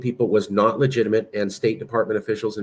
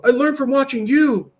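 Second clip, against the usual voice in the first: much higher, louder mock child's reply; hammed-up high child voice, a bit louder; kid from the ad; 6 dB louder than usual. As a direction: play the guilty kid turning it back on his dad. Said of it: "looks up and goes".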